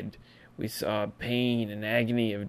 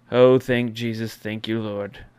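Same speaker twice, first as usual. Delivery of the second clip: mock thanks; 6 dB louder than usual. Mock prayer of relief.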